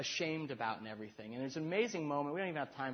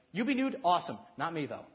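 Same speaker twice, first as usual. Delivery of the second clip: mock prudish voice; 6 dB louder than usual.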